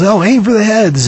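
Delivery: lightly acted excited shout; retold yell. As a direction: call it out like a rider in a shooting ride. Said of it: "one of the guys yells".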